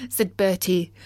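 plain reading voice

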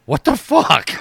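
sudden high, loud outburst of disbelief; Troy. Retold or imitated. Friend imitating the storyteller's outburst mid-conversation, startled. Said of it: "out of nowhere, Troy goes".

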